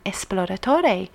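esploratore with "es" and a voiced final e; Italian pronunciation. Shown as a demonstration. Host repeating the Italian word, esploratore softly Italian. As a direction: say esploratore Italian-style, falling at the end. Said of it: "is Italian".

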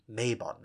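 Mabon said as MAY-bon; popular Mabon pronunciation. Shown as a demonstration. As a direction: say Mabon with a long "ay" first vowel. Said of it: "as some people call it".

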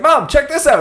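put-on excited kid voice; high eager child calling his mom. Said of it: "And he's like".

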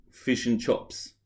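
Kiwi vowels, "chops" for chips; New Zealand accent. Shown as a demonstration. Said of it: "say in your best New Zealand accent".

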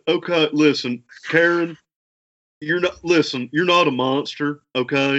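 Doctor Phil impression. Shown as a demonstration. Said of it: "to nail a Doctor Phil impression".

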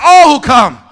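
very loud, high demonstration shout; full-lunged shout. Shown as a demonstration. Preacher showing congregation how to shout, full-lunged shout. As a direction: show them how to really shout. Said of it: "Y'all don't know how to shout".

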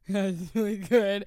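slow, flat forced compliment; slow half-hearted praise; forced politeness. Retold or imitated. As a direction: fake enthusiasm at dinner. Silent hungover dinner date.

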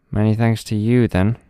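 fast, scornful rat voice. Acted. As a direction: rats brushing it off quickly. Rats leave dismissively.

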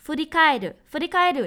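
says "furikairu" very slowly, twice; teacher spelling out "furikairu" slowly; slow word demo. Shown as a demonstration. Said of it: "โดชิ หรือว่า". (พูดคำว่า "furikairu" ช้าๆ สองรอบ)

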